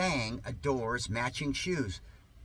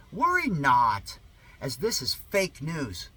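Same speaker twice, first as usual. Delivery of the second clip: slow mock pronouncement; 5 dB louder, slower than usual.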